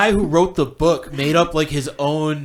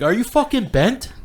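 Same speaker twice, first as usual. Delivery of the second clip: imitating British lad; 8 semitones higher than usual.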